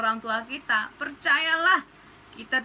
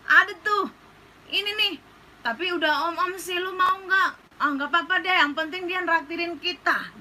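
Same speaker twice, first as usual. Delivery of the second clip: higher, eager gossiping friend voice; mock bad-influence friend; 4 semitones higher than usual. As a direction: tempt her friend with a sugar daddy offer. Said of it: "dia akan bakalan bilang gini". (teman nakal yang menggoda, suara lebih tinggi)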